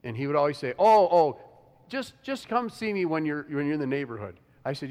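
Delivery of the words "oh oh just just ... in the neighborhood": lightly voiced eager friend; imitating Corey. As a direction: gush like a friend urging a visit. Friend Corey's casual invitation.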